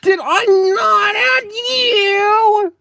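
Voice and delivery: slow, high, loud shout; alarmed shout. Real, not acted. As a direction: cry out in alarm.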